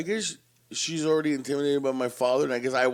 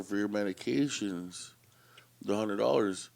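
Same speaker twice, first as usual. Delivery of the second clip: slow, halting, apologetic clerk; nervous pharmacist delivering bad news; hesitant pharmacist. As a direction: break the bad news gently, slowly. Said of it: "she's like".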